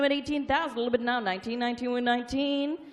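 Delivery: rapid rolling auction chant; auctioneer. Real, not acted. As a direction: rattle off the bids like an auctioneer.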